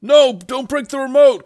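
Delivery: high, loud panicked protest; Shadow. Acted. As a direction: cry out urgently to stop them. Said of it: "Shadow goes".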